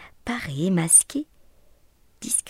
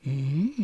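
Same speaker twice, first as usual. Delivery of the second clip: purring hum; 5 semitones lower than usual. A narrator's reading. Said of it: "ronronna-t-il".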